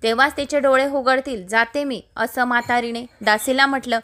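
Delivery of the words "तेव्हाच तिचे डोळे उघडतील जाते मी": usual speaking voice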